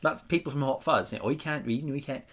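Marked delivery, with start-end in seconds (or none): 1.3-2.2 higher, louder hammed-up West Country yokel; exaggerated West Country with rounded vowels; mock West Country accent. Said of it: "they all do West Country".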